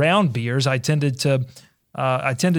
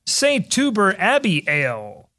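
draft announcer; slower than usual. Acted.

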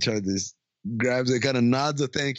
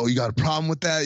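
defensive; 4 semitones higher, faster than usual. Retold or imitated. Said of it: "he's very defensive".

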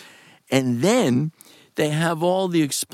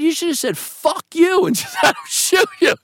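brother's scolding; 4 dB louder than usual. Retold or imitated. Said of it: "He said".

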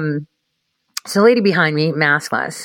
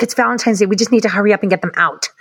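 mild mock scolding, pitched up; quick, higher mock reprimand; retold telling-off; 4 semitones higher, faster than usual. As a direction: imitate a boss telling off staff, hurrying. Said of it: "He's telling her off".

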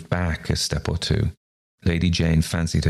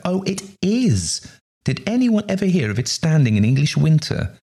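high, gushing amazement; acted enthusiast's delight; excited discovery; 11 semitones higher than usual. A narrator's reading. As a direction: exclaim high, thrilled by a rare find. Excited gardeners discover a rare shrub.

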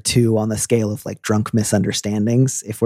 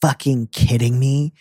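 genuinely angry. Shown as a demonstration. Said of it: "I can hear".

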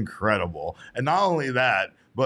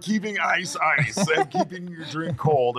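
mock ad pitch; 7 semitones higher than usual. Mock ad pitch for styrofoam cup.

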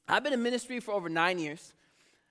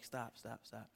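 mock protest; 10 semitones lower, 20 dB quieter, slower than usual. Voices Packer fans objecting to prayer.

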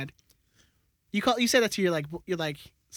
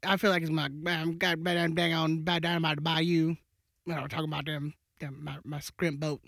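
put-on old bayou man; 2 semitones lower, 5 dB quieter than usual. Co-host copying the brother's character, hint of old bayou man. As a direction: ramble softly like an old bayou local. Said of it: "the old black man Bayou one".

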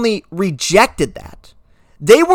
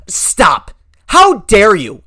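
indignant; much slower than usual. Real, not acted. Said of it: "I never use this phrase".

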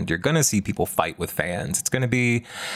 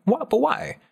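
mock bafflement; 4 semitones higher than usual. Mocking the studio's screaming Sindel.

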